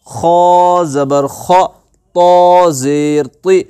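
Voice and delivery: measured chant with drawn-out letter names; teacher leading a syllable drill; spelling drill recitation. Shown as a demonstration. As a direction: recite each letter and vowel steadily, then join them.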